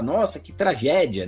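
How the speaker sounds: slow, hammed-up lament; mock dismay. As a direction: pretend to be shocked by a tragedy. Hypothetical horrified reaction to funny scene.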